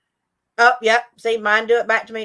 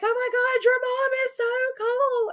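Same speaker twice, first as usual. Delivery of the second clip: gushing friends; 14 semitones higher than usual. Retold or imitated. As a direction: imitate the impressed friends in a high voice. Friends gushing over cool mom.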